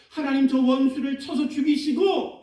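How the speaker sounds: a mild mock curse, voiced high; vengeful demand. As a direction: demand the enemy be struck down. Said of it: "다윗이 하나님을 향해서 이렇게 얘기합니다".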